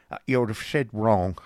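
lightly voiced odd clerk; a touch of blunt contradiction; mildly put-on, abrupt man's voice; Newman. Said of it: "rejoined Newman".

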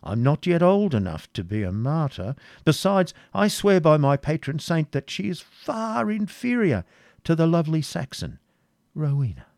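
horrified prior. A narrator's reading. Prior objects to a Jewess as queen, horrified. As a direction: protest in pious horror, swooping upward. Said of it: "turning up his eyes in horror".

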